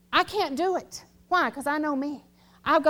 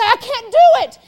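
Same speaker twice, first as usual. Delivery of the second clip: higher, louder whine of the struggling player; imitating the player; 7 semitones higher, 9 dB louder than usual. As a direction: groan it out like he's giving up. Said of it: "he would say".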